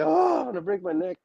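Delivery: mock panic. Scared atop the ring ropes.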